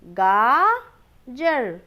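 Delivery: गाजर read slowly and clearly; slow model reading. Shown as a demonstration. Teacher reading the first option slowly. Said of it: "पहला विकल्प क्या है?".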